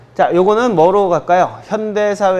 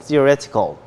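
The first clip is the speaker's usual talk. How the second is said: theoretical, leaning on -ret-; stress on third syllable; much slower than usual. Shown as a demonstration. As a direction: show where the stress falls in "theoretical": on "ret". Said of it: "강세 여기". (theoretical의 ret에 강세를 주어)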